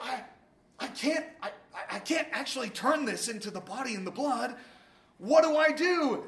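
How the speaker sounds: retold panic with stuttered starts; acted freaking out. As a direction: stammer it like a panicking Martin Luther, lightly acted. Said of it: "And he's freaking out".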